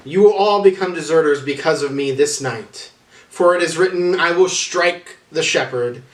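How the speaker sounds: a lightly voiced Jesus, firm and grave; Jesus foretelling desertion.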